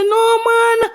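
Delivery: high-pitched mock scolding; exasperated parent, re-enacted; retold protest. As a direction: pitch it right up, stretching the end. Retold scolding of her child.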